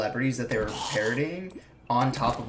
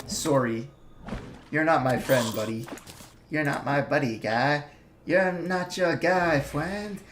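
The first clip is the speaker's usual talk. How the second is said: builds from mild to a high, loud strained squeal; mock Canadian argument escalating into a shriek; imitating South Park Canadian; 5 semitones higher, 6 dB louder than usual.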